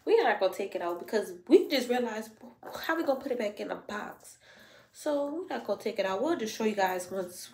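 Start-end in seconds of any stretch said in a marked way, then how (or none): 4.9-7.5 breathless, panting between words; out of breath. Real, not acted. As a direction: talk while winded. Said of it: "I'm out of breath from doing that".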